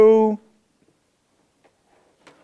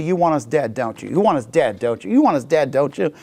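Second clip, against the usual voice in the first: accusing; 2 semitones lower than usual. Retold or imitated. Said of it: "they go right back to".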